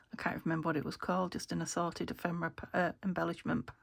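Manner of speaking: short of breath while talking. Real, not acted. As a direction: talk as if winded. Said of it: "I keep running out of breath while I'm talking".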